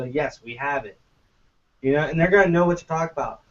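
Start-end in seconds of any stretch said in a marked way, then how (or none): 0.0-1.0 straight face. Retold or imitated. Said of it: "with a straight face and go".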